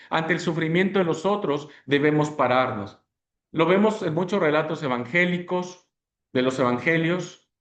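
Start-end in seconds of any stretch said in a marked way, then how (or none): none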